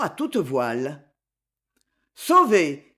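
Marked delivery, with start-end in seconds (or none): 2.1-2.9 louder joyful shout; cheerful cry. Acted. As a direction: celebrate the rescue gaily. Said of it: "cria gaiement le monsieur". (cri joyeux, plus fort)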